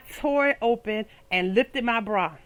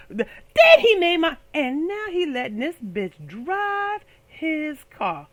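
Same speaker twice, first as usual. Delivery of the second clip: indignant; 4 semitones higher, slower than usual. Retold or imitated. Girlfriend ranting about her man letting another woman drive. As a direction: drag it out in disbelief. Recounting her outrage at him.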